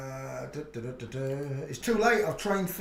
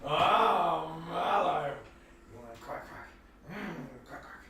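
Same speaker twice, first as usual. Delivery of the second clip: toy teasing; 5 dB quieter than usual. Real, not acted. Offering the dog a squeaky toy.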